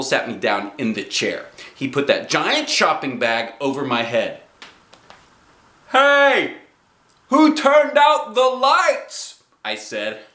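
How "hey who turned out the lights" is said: put-on high, loud, slow kid voice; squealy child comedy; Junie B. joking. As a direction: play the joke for laughs. Junie B. joke.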